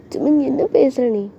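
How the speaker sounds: slow, mildly tearful protest; a touch of whiny hurt; acted crying. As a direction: drag it out as if upset. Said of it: "இப்போ எதுக்கு அழுதுட்டு இருக்க".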